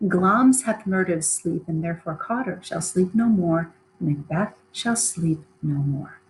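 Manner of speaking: an eerie voice inside Macbeth's mind; voices in his head. Acted. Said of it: "the voices say".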